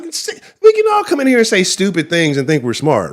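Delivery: ordinary talk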